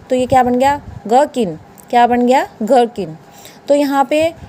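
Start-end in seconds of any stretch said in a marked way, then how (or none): 1.1-1.6 गर्किन with a plain hard G, H silent. Shown as a demonstration. Teacher giving students the answer, silent H pronunciation. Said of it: "एच को है को silent करना है". 2.6-3.2 गर्किन with a plain G and falling tune; silent H. Shown as a demonstration. Teacher repeating the answer for students, silent H pronunciation. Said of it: "एच silent रहेगा".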